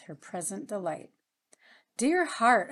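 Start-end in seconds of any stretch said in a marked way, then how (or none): 2.0-2.7 tender cry. A narrator's reading. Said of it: "I cried, folding my arms tenderly".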